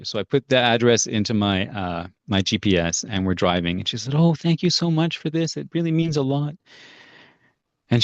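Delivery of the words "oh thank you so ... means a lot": put-on old woman. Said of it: "this old woman knocks on my door".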